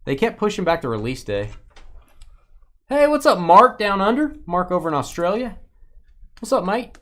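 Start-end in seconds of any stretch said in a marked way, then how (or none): 2.9-7.0 bad Australian accent. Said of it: "That doesn't sound like Australian accent".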